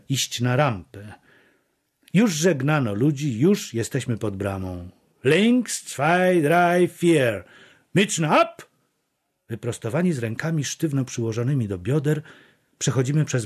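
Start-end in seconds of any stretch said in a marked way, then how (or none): 5.2-8.6 high, called-out drill count; marching command. A narrator's reading. Guard counting the column through the gate, marching command. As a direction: call the step like a drill order.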